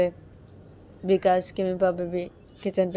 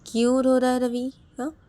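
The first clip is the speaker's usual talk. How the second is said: higher and louder anxious asking; worried question; 6 semitones higher, 7 dB louder than usual. Acted. Shruti asking why Ravi cries, alarmed. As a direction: sound alarmed and curious. Shruti asks about crying.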